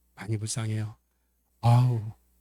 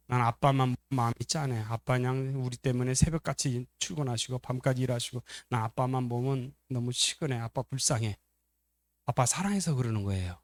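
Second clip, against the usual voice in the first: softer, understated acted sympathy; tender pity; 4 dB quieter than usual. Child tells older brother they pity Dad, tender. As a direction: feel quietly sorry for Dad.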